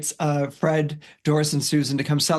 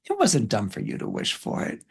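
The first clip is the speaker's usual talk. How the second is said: lower, slightly softened consoling voice; gentle reassurance; 6 semitones lower, 3 dB quieter than usual. Retold or imitated. Chris tells Susan her wish wasn't dumb, gently reassuring.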